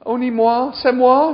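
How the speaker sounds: loud, high, hammed-up "who, me?"; mock disbelief. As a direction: play astonished at being the only one. Mock surprise at nobody agreeing.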